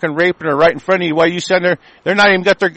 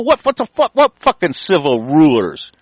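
scornful outrage. Real, not acted. Scornful repeat of phrase.

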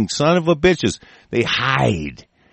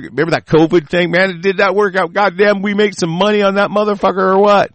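higher-pitched mock self-congratulation; gloating elites; 5 semitones higher than usual. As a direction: crow like a smug insider among cronies. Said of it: "patting each other on the back".

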